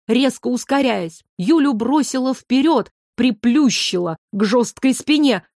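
usual speaking voice

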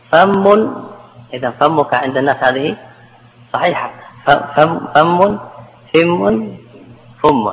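فم with doubled m and changing vowel; rising, step through the forms of فم; doubled variants. Shown as a demonstration. To students, listing doubled forms of فم. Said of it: "هذه تسع".

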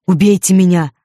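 loud, desperate cry; hoarse shout. A narrator's reading. Peter cries out to the strangers, loud and hoarse. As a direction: hurl it out in despair. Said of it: "закричал он хрипло".

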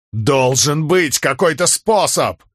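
high, slow insistent cry; desperate cry. A narrator's reading. Man insists there is a way, desperate cry. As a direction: cry it out against the verdict. Man refuses storm god's answer.

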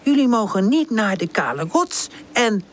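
high, slow, mock-strict aunt; silly aunt voice. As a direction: put on a silly bossy auntie voice. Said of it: "Pip zet een gek stemmetje op".

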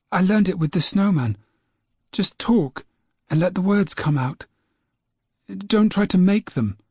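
put-on a boy sharing his secret; young James, proud. James explains the trick.

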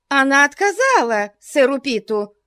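high startled cry; mild cry. A narrator's reading. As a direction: cry out in dismay. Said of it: "закричала жертва". (закричала)

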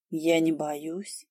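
soft, slow whisper. A narrator's reading. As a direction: barely breathe it out. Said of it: "шепнула Ли".

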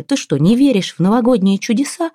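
high, upset question; acted tearful reproach; bawling. A narrator's reading. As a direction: wail the question in disbelief. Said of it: "ревела Ляля".

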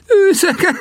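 high incredulous "Őzek?" then a laugh; laughing echo. Acted.

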